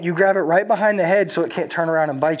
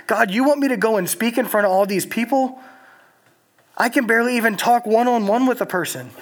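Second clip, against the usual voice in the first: pushing back in disbelief; incredulous Moses; 5 semitones higher than usual. Retold or imitated.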